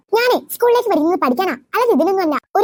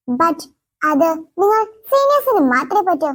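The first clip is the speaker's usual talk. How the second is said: haughty. Acted. Haughty new girl sets terms.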